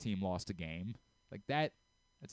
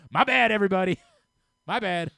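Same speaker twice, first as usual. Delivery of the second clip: laughing mock apology; 7 semitones higher, 12 dB louder than usual. Real, not acted.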